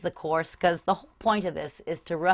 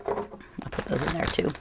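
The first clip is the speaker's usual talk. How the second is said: whispered aside; 2 semitones lower, 8 dB quieter than usual. Real, not acted. Quiet aside while storing hardware.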